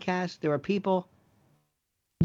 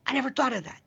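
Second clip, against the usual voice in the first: "I never thought of that" raised noticeably higher, as a sudden realization; lifted, wondering voice; 6 semitones higher, faster than usual. Retold or imitated. The host asking Jordan about epiphanies, raised and wondering. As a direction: lift the voice up in fresh amazement. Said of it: "where you say".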